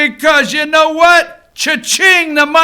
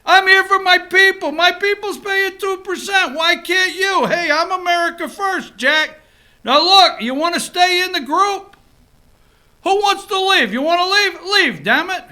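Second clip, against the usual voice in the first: a hint of a tough New York boss, higher; lightly voiced mob boss laying down the law; Trump as consigliere; 4 semitones higher than usual. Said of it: "That's Trump".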